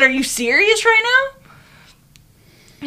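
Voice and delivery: slow, high, incredulous question. Retold or imitated. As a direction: drag it out in disbelief. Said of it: "I said".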